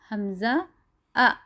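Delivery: حمزہ then آ with a sharp glottal catch before it; jolted hamza. Shown as a demonstration. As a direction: break the sound with a jolt on آ. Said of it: "جھٹکا دے کے پڑھیں گے". (آ کو جھٹکے کے ساتھ پڑھیں)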